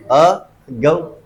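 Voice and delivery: अ and गौ pulled apart, very slow; slow syllable by syllable. Shown as a demonstration. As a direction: stretch out अ ... गौ one syllable at a time. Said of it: "दूसरे पे गिरेगा stress". (धीरे-धीरे अ ... गौ अलग करके)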